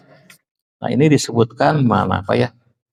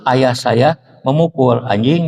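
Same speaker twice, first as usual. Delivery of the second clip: slower phrase, "anjing" lifting at the end; changed intonation; 2 semitones lower, slower than usual. Shown as a demonstration. Teacher demonstrating intonation to listeners, rising on "anjing". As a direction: let "anjing" rise as the changed reading. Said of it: "Diganti intonasi".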